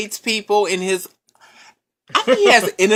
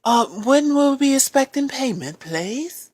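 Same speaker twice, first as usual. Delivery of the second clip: bill collector; 4 semitones higher, slower than usual. Pretend. Collector asking debtor for payment, polite phone voice. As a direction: press courteously for a payment date. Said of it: "someone was calling you".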